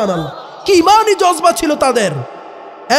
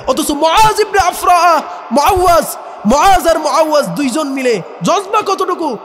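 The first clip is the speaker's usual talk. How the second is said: fervent preaching; 3 semitones higher than usual. Real, not acted. Preacher exalts the boys' faith.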